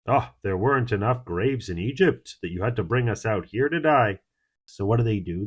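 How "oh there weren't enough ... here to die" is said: mildly sarcastic complaint, rising on the last words. Acted. Frightened people complaining about being brought out to die, mildly sarcastic. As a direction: quote it with a touch of mock wonder.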